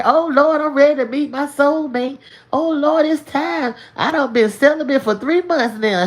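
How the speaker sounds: high-pitched mock prayer, bragging about celibacy; a lightly voiced, giddy churchgoer pleading for a soulmate; eager soulmate seeker.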